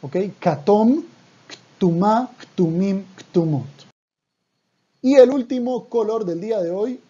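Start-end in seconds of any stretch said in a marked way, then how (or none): 0.4-3.6 "Katom, Ktumá, Ktumim, Ktumot" recited as a list, K sounded before each T; word-by-word demonstration, Katom with a vowel, Ktumá with a K-T cluster; careful correct pronunciation. Shown as a demonstration. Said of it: "decir la palabra correctamente".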